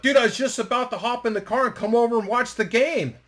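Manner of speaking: high, loud eager chatter; acted-out bubbling enthusiasm; so excited. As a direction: imitate an eager friend on the phone. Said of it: "he was so excited".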